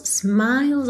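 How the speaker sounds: smiles straight from L to S; silent E. Shown as a demonstration. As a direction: say smiles with no vowel between L and S. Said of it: "esse E é completamente mudo". ("smiles" sem som de E)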